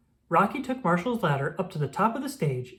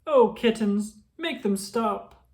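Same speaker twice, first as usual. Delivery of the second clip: pleading; 5 semitones higher, slower than usual. Acted. Villain begging his kittens.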